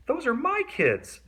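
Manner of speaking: high, scratchy complaint. A narrator's reading. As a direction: rasp it out, shocked. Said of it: "she said in a scratchy voice".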